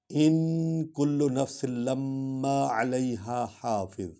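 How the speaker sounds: slow melodic tilawat; Quran recitation. Acted. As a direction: chant the verse slowly and evenly.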